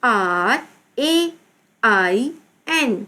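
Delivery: slow, drawn-out letter names; spelling out. Shown as a demonstration. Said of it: "Again read करेंगे". (धीरे-धीरे, खींचकर हिज्जे)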